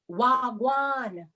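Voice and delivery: Wagwan said as wahg-wahn, falling; patois greeting. Shown as a demonstration. Auntie Sophie teaching the kids the patois greeting Wagwan. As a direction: say Wagwan as one easy word, wahg-wahn. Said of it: "sometimes we say".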